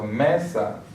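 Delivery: mesa said slowly, stressed on ME; ME-sa, stretch the first syllable; penultimate stress. Shown as a demonstration. Teacher giving examples of palabras llanas, penultimate stress. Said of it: "the second to last syllable".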